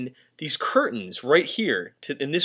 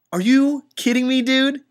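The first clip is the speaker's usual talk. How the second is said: shrill high disbelieving cry, louder; freaked-out disbelief; 11 semitones higher, 4 dB louder than usual. Real, not acted. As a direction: yelp it in shock at the window. Reacting to The Shining.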